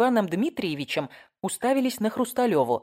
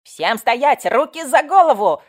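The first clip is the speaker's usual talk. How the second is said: put-on loud, higher child's yell; yelling kid; 7 semitones higher, 9 dB louder, slower than usual. A narrator's reading. Little boy yelling orders with a toy gun. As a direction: bark orders like a little cop. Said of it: "заорал малыш".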